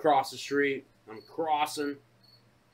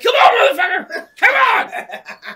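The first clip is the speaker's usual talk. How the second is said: roaring high-pitched challenge; re-enacted screamed taunt; mad; 12 dB louder than usual. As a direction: dare them to a fight at full volume. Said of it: "I was so mad, dude".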